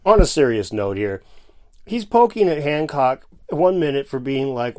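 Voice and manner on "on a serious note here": mock serious. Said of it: "I deal in seriousness here".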